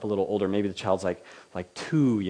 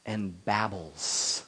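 babbling; 3 semitones lower, 5 dB quieter, much slower than usual. Shown as a demonstration. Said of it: "an adult gets down by a".

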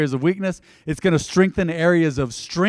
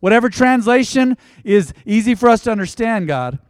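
fervent prayer; 2 semitones higher than usual. Acted. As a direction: pray with building fervor. Preaching prayer.

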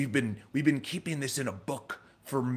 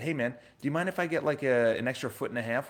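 light, easygoing joking request; friendly, with a smile; 2 semitones higher than usual. Shown as a demonstration. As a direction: ask it smiling, no edge at all. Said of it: "with a smile and not".

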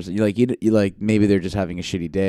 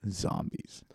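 spooky whisper; 13 dB quieter than usual. Pretend. Spooky reveal of airport zombies.

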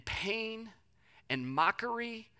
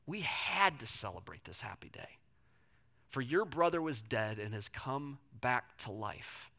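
put-on father gently answering his older son, tender; 2 semitones lower, 3 dB quieter than usual. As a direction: comfort your resentful son. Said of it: "He says".

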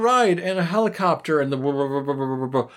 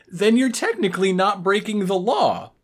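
mock outraged robot; 5 semitones higher, 5 dB louder than usual. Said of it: "his line is".

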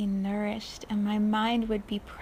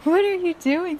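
mock indignant; 8 semitones higher, 7 dB louder than usual. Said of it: "she would just go".

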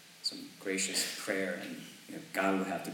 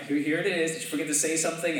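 higher, louder and fast; louder parent reminder; 7 semitones higher, 5 dB louder, faster than usual. Retold or imitated. Pastor reminding his kids a second time, higher and louder. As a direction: push harder the second time. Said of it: "I kinda have to remind my kids".

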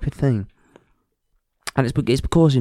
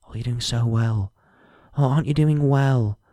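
cooing mock praise; mocking patronising voice. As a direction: parody the patronising people. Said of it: "have the right to say".

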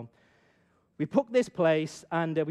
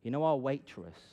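confiding sister; 7 semitones lower, 8 dB quieter than usual. Retold or imitated. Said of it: "My sister used to be a teacher".

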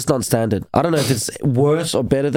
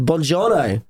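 show-off Italian greeting; Italian pronunciation demo; 2 semitones higher, slower than usual. Shown as a demonstration. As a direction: present it as true Italian. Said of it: "that's how you say it".

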